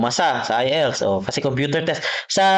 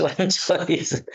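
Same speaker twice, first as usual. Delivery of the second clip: drawn-out words with a laugh; real chuckle stretching the words; amused; 3 semitones higher, much slower than usual. Real, not acted. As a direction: laugh while slowly saying it. Teacher joking there is no choice.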